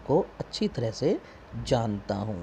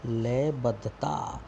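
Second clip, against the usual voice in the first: slow answer; much slower than usual. Shown as a demonstration. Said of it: "क्या बोलते हैं बेटा rhyming scheme को".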